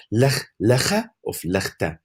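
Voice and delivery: slow, measured trial of "Lig, ligge of ligte"; sounding it out. Shown as a demonstration. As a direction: test "Lig, ligge of ligte" aloud, slowly comparing each form. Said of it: "Say it out loud".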